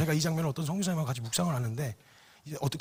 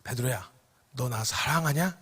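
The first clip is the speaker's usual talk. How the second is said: gentle question; 4 semitones lower than usual. Retold or imitated. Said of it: "딱 하나 물어보셨어요".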